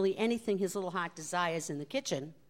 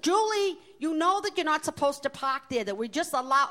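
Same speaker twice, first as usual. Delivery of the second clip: boss laughing; 7 semitones higher, 5 dB louder than usual. Retold or imitated. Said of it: "laughing so hysterically".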